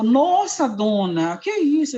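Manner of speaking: imitating a taken-aback pastor, high and loud; startled exclamation. Pastor shown the surgery wound, taken aback.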